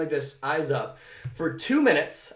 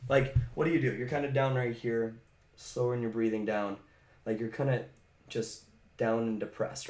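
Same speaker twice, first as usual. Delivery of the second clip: slumped depressed voice; 6 semitones lower, 3 dB quieter than usual. Shown as a demonstration. Coach showing a depressed body state, low and slumped. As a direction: sink low and soft, breath slowed. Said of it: "put yourself into a depressed state with your body".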